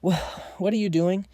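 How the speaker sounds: screaming. A narrator's reading. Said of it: "He screamed".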